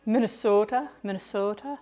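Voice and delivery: lightly imitated Minnesota lilt, lifting at the end; sing-song Minnesota accent. Streamer showing how Minnesotans say their state, mock sing-song Minnesota accent. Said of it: "They say it with a sing-song".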